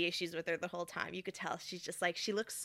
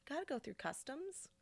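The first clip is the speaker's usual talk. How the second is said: higher, softer echo; 7 semitones higher, 11 dB quieter than usual. Real, not acted. To the viewers, lightly echoing the customs line. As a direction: sing it back lightly. Repeat in different voice.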